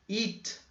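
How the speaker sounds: eat said high and soft; teacher modelling the long vowel; long ee demo. Shown as a demonstration. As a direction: stretch the ee in eat. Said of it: "que é o verbo comer".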